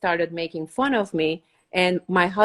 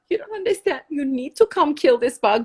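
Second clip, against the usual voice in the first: pleading; 4 semitones higher than usual. Retold or imitated. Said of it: "I'm like".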